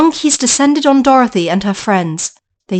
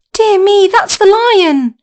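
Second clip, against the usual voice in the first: high, slow startled cry; Dorothy startled by the lion's roar; surprised girl; 9 semitones higher, 4 dB louder, slower than usual. Acted. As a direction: realise it with a start.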